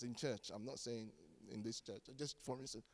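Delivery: soft, low, nearly whispered aside; preacher whispering a teasing aside about this church; hushed aside. Real, not acted. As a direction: drop it to a whisper, half joking.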